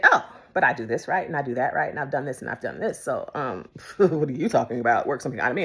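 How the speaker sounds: low-pitched, self-justifying pride; imitating a prideful objection; mock arrogance. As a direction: reel off credentials, then scoff. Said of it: "my pride, my arrogance would have said".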